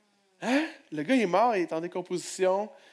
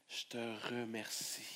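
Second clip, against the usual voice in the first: low, hushed thanks; whispered-soft prayer; 6 semitones lower, 16 dB quieter than usual. Shown as a demonstration. Preacher models a prayer of faith for the church, hushed and tender. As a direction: pray it tenderly to God.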